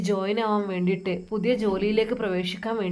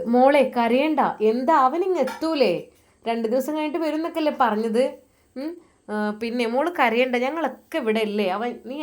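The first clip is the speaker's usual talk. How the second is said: comforting mother; 3 semitones higher than usual. Acted. Mother comforting crying daughter.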